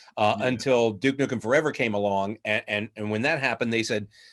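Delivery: plain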